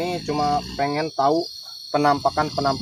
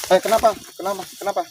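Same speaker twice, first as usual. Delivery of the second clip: higher and louder, startled; alarmed loud asking; 6 semitones higher, 4 dB louder, faster than usual. Real, not acted. Startled ghost hunter loudly asking the spirit what's wrong. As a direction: call out in alarm, repeating.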